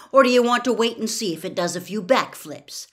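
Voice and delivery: irritated sarcastic retort; irritably. A narrator's reading. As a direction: needle her, fed up. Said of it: "said Harry irritably".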